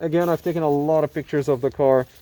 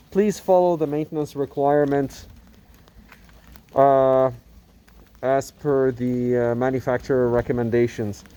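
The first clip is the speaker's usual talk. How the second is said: muffled speech through a face mask; words dulled by a mask over the mouth; talking through a mask. Real, not acted. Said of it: "talking through a mask".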